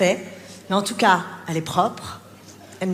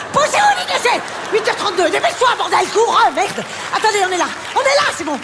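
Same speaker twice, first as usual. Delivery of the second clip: high, loud and breathless panic; frantic rushing yell; 9 semitones higher, 4 dB louder than usual. Acted. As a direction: yell in a rush as if late for school. Late mother rushing at school gate.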